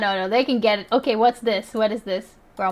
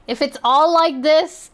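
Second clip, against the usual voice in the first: mocking uptalk with a rise on THIS; 3 semitones higher than usual. Mocking the accent just heard in the clip, uptalk on THIS. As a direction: lift THIS at the end like a question. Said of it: "it's just up talking vocal".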